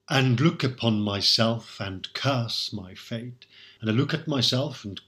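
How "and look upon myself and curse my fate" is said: slow, measured verse reading; poem recital. Shown as a demonstration. Lecturer quoting the sonnet aloud, slow recital. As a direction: savour each word of the verse.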